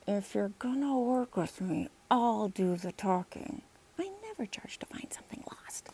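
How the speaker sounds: soft whispered warning, slowing down. Acted. Boy whispering to Emily at the backyard gate, hushed. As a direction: whisper it so the mayor won't hear. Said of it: "Logan turned to Emily and whispered".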